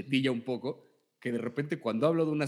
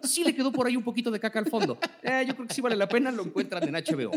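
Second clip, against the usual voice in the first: fast, laughing review pitch; TikTok reviewer voice; 5 semitones higher than usual. Pretend. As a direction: narrate it like a breathless trailer. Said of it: "al estilo de Javier Ibarreche".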